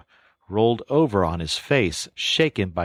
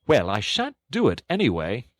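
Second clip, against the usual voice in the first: higher, worked-up protest; a fussy toad getting heated; excited Toad; 5 semitones higher than usual. A narrator's reading. Toad refusing his friends, higher and worked up. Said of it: "cried Toad, getting excited".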